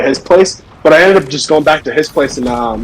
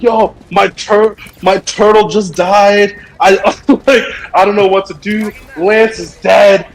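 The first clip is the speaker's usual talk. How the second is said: slow, higher-pitched mock distress; hammed-up fake grief; 4 semitones higher than usual. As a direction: act out a friend faking devastation over a pet. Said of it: "best performances, Oscar-winning performances".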